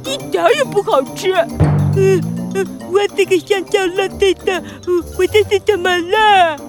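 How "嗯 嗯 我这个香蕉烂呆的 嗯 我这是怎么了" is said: talking with a swollen tongue; slurred words through a fat tongue. Acted. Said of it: "舌头越变越大，连话都说不清楚了". (舌头肿了说话含糊不清)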